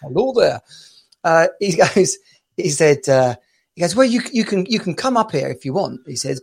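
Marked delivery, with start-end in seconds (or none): 0.0-0.6 put-on Scottish greeting; attempted Scottish accent. Imitating the caller's hello once more, Scottish accent. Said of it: "not gonna attempt to do a Scottish accent". 4.0-6.0 lightly imitated Scottish caller; attempted Scottish accent. Scottish caller warning English fans, lightly put-on accent. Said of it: "this Scottish guy rang up".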